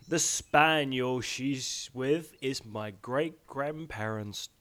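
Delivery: soft slow whisper. Real, not acted. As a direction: whisper it slowly. Unvoiced whispered line.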